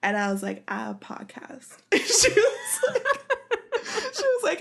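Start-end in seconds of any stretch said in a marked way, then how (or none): 0.7-1.8 slow, much softer, laughing mumble; sheepish. Retold or imitated. Retold awkward self-promotion.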